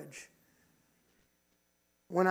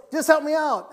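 retold plea; 7 semitones higher, 9 dB louder than usual. Friend pleads, acted out.

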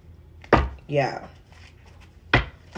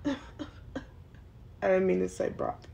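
laughing; 10 dB quieter, much slower than usual. Real, not acted. Laughs after slipping on a name.

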